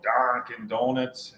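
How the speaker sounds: put-on boss's regional accent on Dunkin'; imitated regional accent. Host naming the coffee shop in co-host's area, imitated regional accent. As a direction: say Dunkin' with his accent, broad first vowel. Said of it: "That's how he says it".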